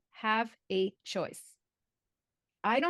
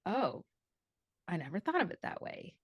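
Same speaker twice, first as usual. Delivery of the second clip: quiet realization; 2 semitones lower, 5 dB quieter than usual. Retold or imitated. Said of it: "And I was like".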